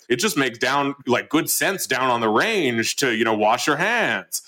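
put-on a light Southern cowboy accent, slowed down. Cowboy in a CDC ad on hand washing, lightly imitated Southern accent, slow. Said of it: "they do it in kind of this Southern voice".

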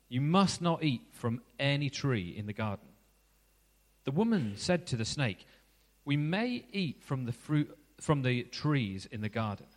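measured, unhurried Bible reading; scripture reading. Acted. Preacher reading Genesis to the congregation, measured scripture reading. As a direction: read the passage to the congregation. Reads Genesis passage aloud.

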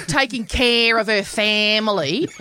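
lightly exaggerated broad Australian; broad Australian accent. Shown as a demonstration. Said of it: "I'll go from the broadest Australian accent".

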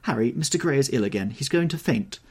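alarmed high exclamation; duchess crying out. A narrator's reading. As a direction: call out in a high, urgent duchess voice. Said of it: "cried the Duchess".

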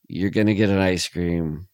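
lightly imitated psychic with halting pauses; Christopher Walken. Retelling a spoof psychic's warning, lightly halting imitation. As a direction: break the warning into halting, understated pieces. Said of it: "But he just says".

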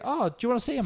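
high-pitched imitation of an old lady; mimicked old lady's high question. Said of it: "old multi-lady answers".

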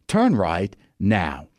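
slow, flat English satnav lady; English woman GPS voice. Retold or imitated. Imitating the car GPS voice to the listeners, slow and prim. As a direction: read it like a prim English navigation voice. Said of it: "set on the English woman voice".

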